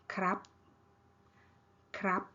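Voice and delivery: KRAP short, on a high tone. Shown as a demonstration. Teacher showing male speakers' polite particle, high tone. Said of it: "high tone".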